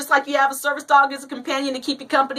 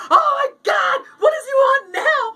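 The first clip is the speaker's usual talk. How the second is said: high, loud comic hysteria; screaming freak-out; 11 semitones higher, 3 dB louder than usual. Acted. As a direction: shriek in panic as if freaking out. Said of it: "these guys start screaming like".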